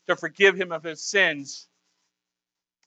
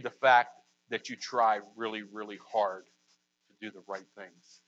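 much softer and lower, almost confiding; quiet, low sermon voice; hushed preaching; 8 semitones lower, 9 dB quieter than usual. Real, not acted. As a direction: drop to a soft, low hush.

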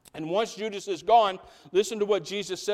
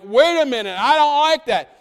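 much higher and louder, put-on voice; disciples protesting; 9 semitones higher, 12 dB louder than usual. Disciples objecting to Jesus, a high loud put-on protest. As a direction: play the indignant disciples. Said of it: "bantering and bittering and like".

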